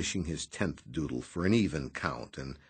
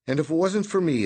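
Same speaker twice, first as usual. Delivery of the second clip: higher, louder indignant protest; protesting Noonan; 10 semitones higher, 9 dB louder, faster than usual. A narrator's reading. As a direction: object with mock outrage. Noonan objecting.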